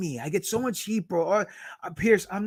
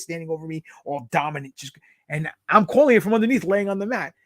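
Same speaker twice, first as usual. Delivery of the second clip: ordinary delivery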